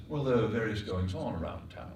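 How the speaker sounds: put-on old-fashioned upper-class London accent; 1930s London accent. Shown as a demonstration. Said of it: "in nineteen thirties, someone might have said".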